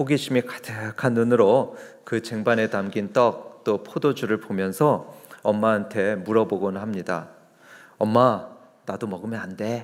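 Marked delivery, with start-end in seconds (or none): 8.0-9.8 put-on whispering child voice. Describing children at communion asking their mother, imitating a child whispering. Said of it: "이렇게 속닥속닥 하죠".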